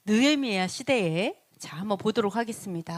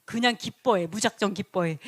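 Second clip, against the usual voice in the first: commanding scribe. Retold or imitated. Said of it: "이렇게 얘기했다라는 거죠".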